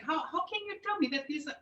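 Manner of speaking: put-on high, fast, indignant child's protest. Retelling her childhood shock, a high, fast, indignant blurt. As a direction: blurt it out like a bewildered little girl.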